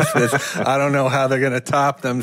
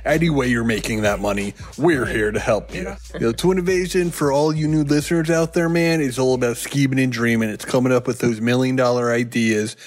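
congested voice. Pretend. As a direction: talk like a congested surfer dude. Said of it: "You sound congested all of a sudden".

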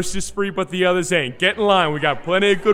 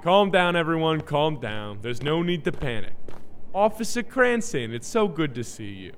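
smooth-talk the officer, voice lowered; put-on smooth talk; 5 dB quieter than usual. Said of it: "Why are you talking like that".

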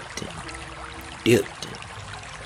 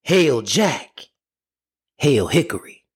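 raised, higher calling of each name; 4 semitones higher than usual. Acted. Brother still calling his dogs, raised voice. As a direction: call for the hounds again. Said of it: "kept on calling".

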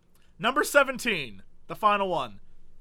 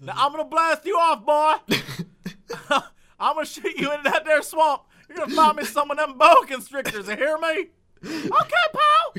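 hick dad voice; 5 semitones higher, 4 dB louder than usual. Retold or imitated. Playing pa to son.

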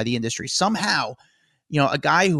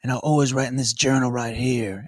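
mock drawl like a famous rock-and-roll singer. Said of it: "he speaks like a famous rock-and-roll singer".

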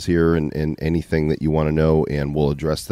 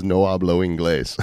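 mock Spanish. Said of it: "the first thing that came out of my mouth was".

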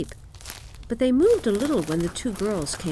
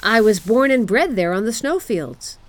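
loud, keen beast voice; proud reindeer; 3 semitones higher, 7 dB louder than usual. A narrator's reading. Reindeer boasts of its birthplace, proudly. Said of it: "his eyes sparkled".

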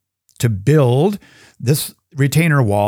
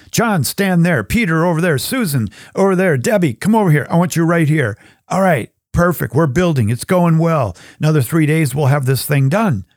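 bossy builder; 4 semitones higher than usual. Acted. Builder arranging people as stones.

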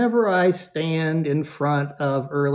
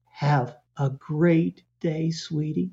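slow, calm, lightly voiced parent fading softer; calm goodbye; 4 dB quieter, slower than usual. Confident parent to the crying kid, slow and calm. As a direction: say it calmly and let it go. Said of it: "they say something like this".

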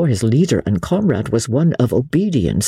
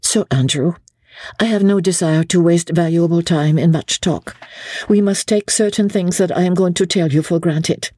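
measured, calm, a lightly raised lady's voice; very calmly; 8 semitones higher than usual. A narrator's reading. Lady Blakeney calmly warning Sir Andrew, measured and steady. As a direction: lay out the danger steadily, without haste. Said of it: "very calmly".

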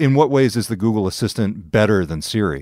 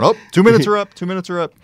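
mock kid voice; 9 semitones higher, 3 dB louder, faster than usual. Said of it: "the authority is the smartphone".

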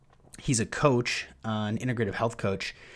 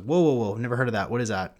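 mock amazed, a bit louder on the whoas; surprised; 4 dB louder, faster than usual. Host retelling his reaction to Siim, mildly amazed. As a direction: play your own past astonishment. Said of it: "And I was like".

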